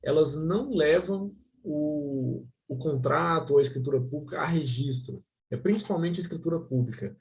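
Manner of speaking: call dropping out. Real, not acted. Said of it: "Tá um, tá um pouco falhando".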